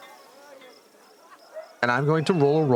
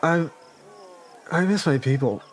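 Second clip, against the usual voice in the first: tipsy, sentimental slur; sloppy drunk confession. Acted. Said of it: "a weepy drunk".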